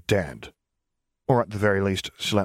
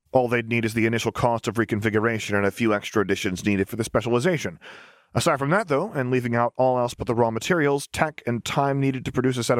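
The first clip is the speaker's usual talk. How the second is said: put-on cheerful young engineer; 3 semitones higher than usual. Lars explains the costs.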